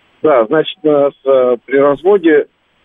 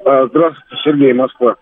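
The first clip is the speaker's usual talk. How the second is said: как в бочке. Real, not acted. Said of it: "вы чуть-чуть в бочке говорите".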